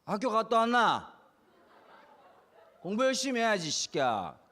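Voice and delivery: slow, rough dad scolding with a laugh; gruff Gyeongsang dad. Retold or imitated. Gyeongsang dad greeting his kids with rough scolding. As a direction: lightly play a blunt Gyeongsang father. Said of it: "이렇게 말하는 아빠".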